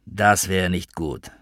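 slow and grave; serious. Acted. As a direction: weigh each word heavily. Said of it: "sagte Gary ernst". (ernst und langsam)

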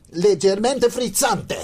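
put-on slow, loud, high Italian accent. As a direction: savour each syllable in Italian. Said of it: "es liegt alles an der Aussprache".

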